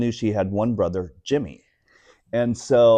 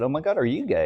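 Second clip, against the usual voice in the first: shocked question; 8 semitones higher, faster than usual. Retold or imitated. Shocked to find friend gay.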